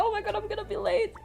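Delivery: fast, high panicked mutter. Retold or imitated. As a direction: rush it out in panic. Panicking in the long line.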